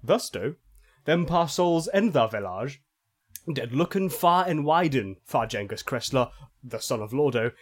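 solemn fake-archaic scripture reading; mock scripture reading. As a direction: read it like garbled holy scripture. Reads fake phonetic bible.

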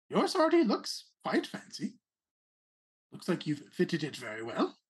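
a hint of a haughty rabbit noble; Rabbit Prince voice. Prince considers the rapier.

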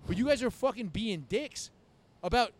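loud, high, worked-up protest; retold getting mad. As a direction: insist you're calm while clearly losing it. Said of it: "I was getting mad".

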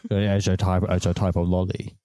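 low, dead-faced droning delivery; low deadpan explainer voice; deadpan put-on voice. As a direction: speak as if possessed, lifeless and low. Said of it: "how dead your face goes when you do that voice".

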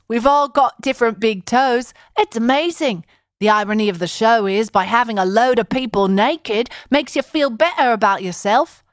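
mock British accent on a quote; lightly put-on British accent. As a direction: read the producer like a Brit. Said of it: "Should I do it in a British accent?".

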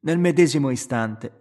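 usual speaking voice

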